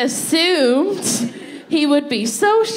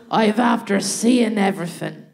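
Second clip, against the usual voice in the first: put-on Irish old man. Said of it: "he couldn't have sounded more Irish".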